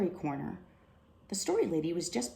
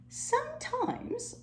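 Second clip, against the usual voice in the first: strained voice; slower than usual. Acted. Injured librarian speaks from floor.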